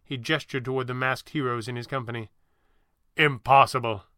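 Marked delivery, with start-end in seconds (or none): 3.2-4.1 snorted. Acted. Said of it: "snorted Pavli".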